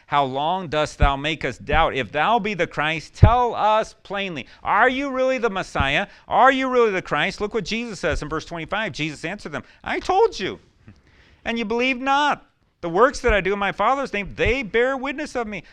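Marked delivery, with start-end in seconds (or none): 0.1-7.4 louder, higher, slow insistent questioning; demanding crowd. Acted. Jews demanding Jesus speak plainly, loud and slow. 9.8-15.6 much higher, louder, emphatic; firm rebuke. Acted. Jesus answering the Jews, high and emphatic.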